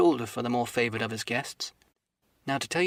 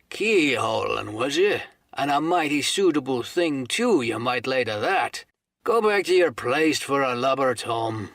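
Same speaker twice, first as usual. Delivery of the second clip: slow, louder scornful drawl; gruff dismissal; 4 dB louder, slower than usual. Acted. Silver sends Morgan back to his seat, scornful. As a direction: send him back with a sneer.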